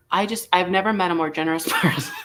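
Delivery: self-mocking brag breaking into laughter; can't keep a straight face; laughing. Real, not acted. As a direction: try to boast but crack up. Sarcastic self-praise breaking into laughter.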